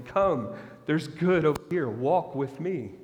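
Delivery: slow, tender invitation with Walk with me drawn out; gentle inviting father. Acted. The Father inviting his people to walk with him, slow and gentle.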